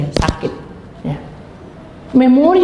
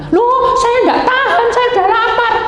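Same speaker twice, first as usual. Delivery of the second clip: mock whining; 14 semitones higher, 4 dB louder than usual. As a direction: wail it in exaggerated protest. Acted complaint of hungry person fasting. (rengekan lapar yang dibuat-buat)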